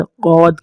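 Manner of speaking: عود as heavy Arabic Dad, tongue edge on back teeth; tongue-side letter. Shown as a demonstration. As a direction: press the tongue's side to the molars for a thick عود. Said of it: "عود کی آواز آئے گی".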